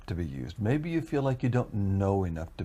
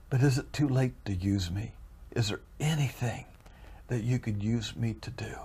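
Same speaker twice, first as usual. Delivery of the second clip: put-on subdued, pleading old man's prayer; imitating a softly desperate prayer; crying to God; 4 dB quieter than usual. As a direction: plead humbly, fading almost to a whisper. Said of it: "he is crying to the Lord".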